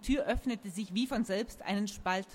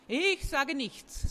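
very slow, higher-pitched, drawn out; stubborn refusal; 6 semitones higher, much slower than usual. A narrator's reading. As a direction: stretch it out defiantly. Unknown man refuses to answer.

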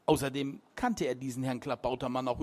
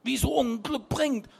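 put-on higher, louder young man correcting; Martin setting it straight; 8 semitones higher, 3 dB louder than usual. A narrator's reading. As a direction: insist the point is obvious. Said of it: "stellte Martin klar".

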